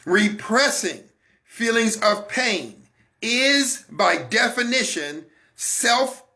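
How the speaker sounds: deliberate preacher's emphasis with pauses; emphatic restating. Shown as a demonstration. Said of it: "say it again for the people in the back row".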